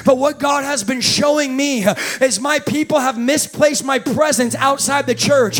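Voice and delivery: preaching. Acted. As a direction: preach with building fervor. Preaching builds again.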